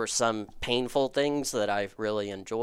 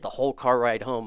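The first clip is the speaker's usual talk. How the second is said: ordinary talk, nothing marked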